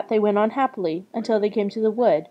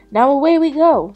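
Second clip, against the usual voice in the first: raised, louder rallying call; eager boy; 5 semitones higher, 7 dB louder than usual. A narrator's reading. Hansel leads Gretel away with treasure, eagerly. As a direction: set off brightly and boldly.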